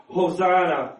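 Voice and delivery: understated shouted praise; mild crowd shout. Acted. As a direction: proclaim it like a welcoming crowd, not quite shouting.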